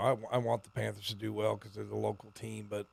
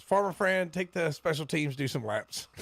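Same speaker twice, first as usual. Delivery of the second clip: mock mumbled movie-character quote, starting higher; Farmer Fran voice; 6 semitones higher than usual. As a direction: toss off the line like a goofy mumbling coach from a comedy. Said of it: "that one scene in Waterboy".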